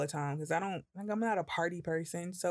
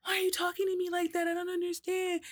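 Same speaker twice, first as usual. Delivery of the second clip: put-on much higher, whiny hurt girlfriend voice; imitating girlfriend; 11 semitones higher than usual. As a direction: mimic her wounded confusion. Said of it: "And she was like".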